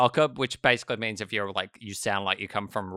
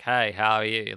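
tone the Australian accent down to the city version. Shown as a demonstration. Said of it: "and you're a bit like".

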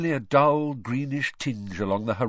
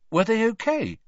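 higher, louder startled question; 6 dB louder than usual. A narrator's reading. Boy asking after splinched strangers, startled. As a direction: ask it with a jolt of alarm.

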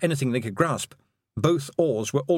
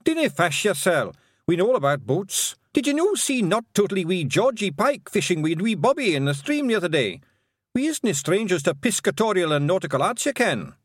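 high, broad Scottish pixie; loud wee Scotsman boasting; broad scottish accent; 8 semitones higher, 3 dB louder than usual. Acted. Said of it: "said Rob".

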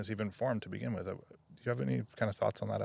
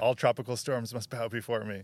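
Chris Farley El Niño; 2 semitones higher, 4 dB louder than usual. Retold or imitated. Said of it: "Saturday Night Live Chris Farley character".

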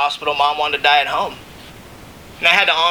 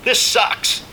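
breathless whisper, pitched higher; whispered grief; 7 semitones higher, slower than usual. Real, not acted. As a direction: let it slip out in a whisper of grief. Grief after praying for mom.

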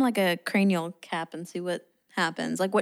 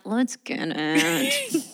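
drawn-out, higher hype cheer; hype woman; 4 semitones higher, much slower than usual. Acted. Hype woman cheering on the dancers, slow and drawn out. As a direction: stretch it out like a playful hype woman. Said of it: "I'm like".

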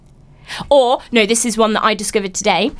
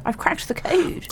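whispered; 7 semitones higher, 7 dB quieter than usual. Real, not acted. Repeated, whispered smugly.

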